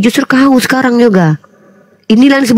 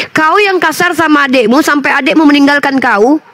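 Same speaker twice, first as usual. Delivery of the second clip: angry scolding; 3 semitones higher than usual. Real, not acted. Host scolds the sister on a live stream, angry and raised. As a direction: tear into her for what she did to her brother.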